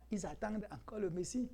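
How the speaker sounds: softly, as a confidential aside; low voice. Shown as a demonstration. Preacher repeating a remark discreetly to his congregation, low voice. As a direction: drop the volume, almost confiding. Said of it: "Je le dis à voix basse".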